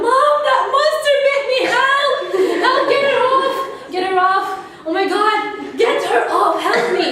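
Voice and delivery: high, loud, laughing yells for help; screaming for mom. Retold or imitated. Bitten child screaming to mom for help, hammed-up. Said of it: "I screamed and cried and".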